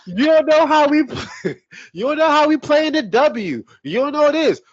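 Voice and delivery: high, whiny mocking voice with a laugh; mock online arguer. Mimicking the online sports debaters in a high whiny voice.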